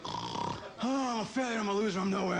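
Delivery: mock groan of self-pity; sad sleep-talk. Grandson imitating his depressed grandfather asleep, sad mock moaning. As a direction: moan it like a depressed sleeper, hammed up. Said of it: "He used to sleep like this. It was sad".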